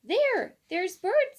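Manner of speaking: put-on a little boy with an eager idea; excited child. A narrator's reading. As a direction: blurt out the bright idea.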